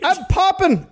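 high, mock French accent on I'm popping. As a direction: say it like a hammed-up Frenchman. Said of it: "that'd be in a French accent".

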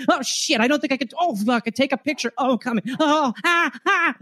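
high, breathless moaning mixed with errands; mock orgasm moans. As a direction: keep climaxing while fretting about chores. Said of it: "this is how the person who's having twenty thousand orgasms is going".

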